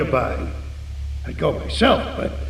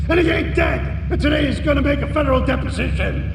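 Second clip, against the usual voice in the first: much higher and yelling, furious; furious shout; 7 semitones higher than usual. Acted. Panicked boss yells at hitman who missed the witness, furious shouting. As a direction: tear into him for botching the hit.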